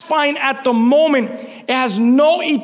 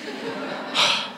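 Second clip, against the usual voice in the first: calming sigh; 8 dB quieter than usual. Real, not acted. Cooling himself after outburst.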